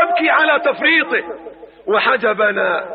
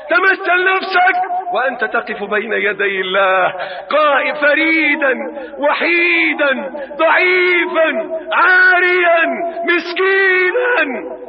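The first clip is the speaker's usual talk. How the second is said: building preaching cry; 4 semitones higher, slower than usual. Real, not acted. (نبرة وعظ متصاعدة)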